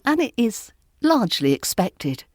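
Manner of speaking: ordinary delivery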